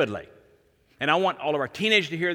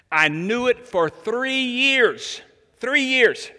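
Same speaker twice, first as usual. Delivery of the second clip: tearful, high and louder, slowly drawn out; emotional confession; 7 semitones higher, 4 dB louder, much slower than usual. Retold or imitated. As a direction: let the sister's pain break through on the three years. Retold sister's emotional confession.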